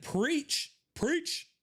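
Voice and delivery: high put-on voice reading a cheer; mock chat cheer. Streamer reads a viewer's chat in high mock voice. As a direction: pitch it way up like a fan yelling praise. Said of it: "Fern just said".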